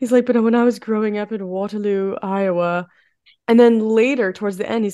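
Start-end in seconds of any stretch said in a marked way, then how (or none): 0.2-2.9 put-on British accent. Quoting the chef's story about growing up: imitating Julian's British accent. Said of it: "he has, like, a British accent".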